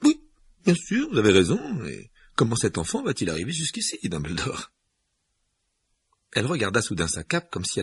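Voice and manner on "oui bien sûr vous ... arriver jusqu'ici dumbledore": put-on high, tense older woman; McGonagall voice. A narrator's reading. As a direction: voice her higher and urgent.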